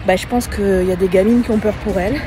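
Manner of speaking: talking while running; slightly breathless running talk. Real, not acted. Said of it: "je suis en train de courir".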